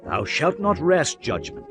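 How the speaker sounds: usual speaking voice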